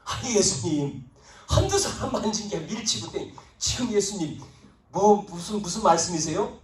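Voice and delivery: imitating baffled disciples; incredulous. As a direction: protest as if the question makes no sense. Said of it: "어이가 없다는 듯이 얘기한 거죠".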